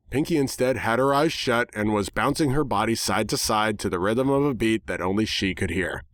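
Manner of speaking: ordinary delivery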